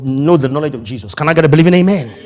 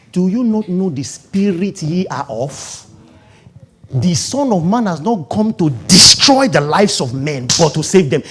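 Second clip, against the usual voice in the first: Jesus rebuking gently. Retold or imitated. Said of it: "Just say".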